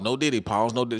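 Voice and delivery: normal talking voice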